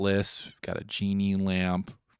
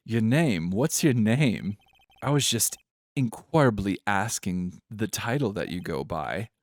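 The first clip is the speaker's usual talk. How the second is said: a hint of posh British, done poorly; 4 dB louder than usual. Pompous CEO asking a lawyer's name, posh British. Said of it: "Posh British".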